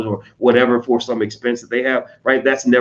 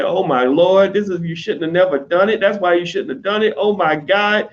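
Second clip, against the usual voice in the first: mock wailing, pitched up; tearful praying lament; 4 semitones higher than usual. People crying to Jesus over a setback, mock tearful lament. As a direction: lament like it's the end of the world. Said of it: "they will go cry and pray to Jesus".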